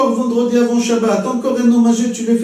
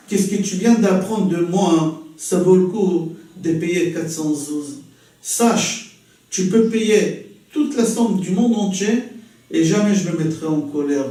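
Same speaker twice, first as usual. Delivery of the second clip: calm patience; 4 semitones lower than usual. Acted. Hillel calme face à l'insolent.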